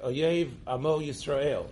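"Oyev" with a y in place of the h of Ohev, slowly; wrong pronunciation. Shown as a demonstration. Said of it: "instead of Ohev".

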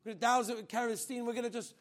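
loud, fast soldiers' threat; menacing threat. Retold or imitated. Soldiers threatening the girl with burning, loud and fast.

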